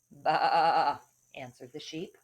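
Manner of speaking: lively storybook read with voiced bits; reading to children. A narrator's reading. Teacher reading a fable aloud to second graders.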